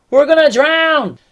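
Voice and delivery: high, loud, stretched-out yell; panicked yell. Acted. Disciples as waves fill the boat, panicked yelling. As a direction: wail it out in acted panic. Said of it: "they yelled".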